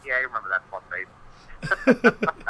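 slow, drawn-out teasing; a friend slowly ribbing him about the prank; mock teasing friend. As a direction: stretch it out slowly to rub it in. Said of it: "They go".

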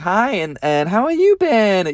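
mock-friendly greeting rising high at the end; gushing fake friend. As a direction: lightly parody an over-keen acquaintance. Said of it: "this is exactly how they were, they were talking".

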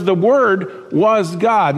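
the Word was God drawn out very slowly, Word stressed; slow and deliberate, each word weighed; emphatic. Shown as a demonstration. Pastor stressing the verse to his church, slow and emphatic. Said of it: "emphatic where it says this".

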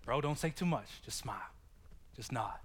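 hushed inner voice, fading to a whisper; quiet self-talk. Retold or imitated. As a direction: mutter it to yourself. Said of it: "you've had to do some self-talk".

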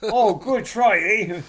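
high, loud jokey cheer; exaggerated cheery consolation; mock encouragement. Joking Canadian encouragement, repeated.

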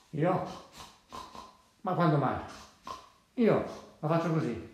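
lightly voiced storybook pig; a hint of a pig character. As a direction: give the pig short, separated phrases.

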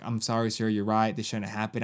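low, quiet placating apology; mock apologetic manager. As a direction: give a subdued, retold customer-service apology. Manager apologising in retold exchange.

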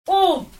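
"Oud" pulled apart into ou and d; split into sounds. Shown as a demonstration. Teacher asks how many sounds, "Oud" split in two. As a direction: say "Oud" with a gap before the d. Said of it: "Nous entendons combien de sons".

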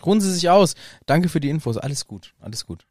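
calm him down gently; soothing. Retold or imitated. Harry soothing Ollivander. (beruhigend, leiser werdend)

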